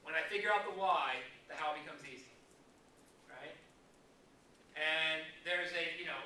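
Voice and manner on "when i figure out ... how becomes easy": repeated clearly so they can write it down; dictation pace. Shown as a demonstration. To agents taking notes, repeating the line for dictation. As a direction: say it again, louder, for note takers. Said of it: "you might wanna write that down".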